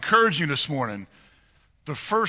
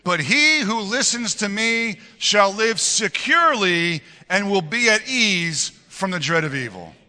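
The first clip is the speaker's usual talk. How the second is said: loud and enthusiastic; 3 semitones higher, 3 dB louder, slower than usual. Real, not acted. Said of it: "nice and loud, with enthusiasm".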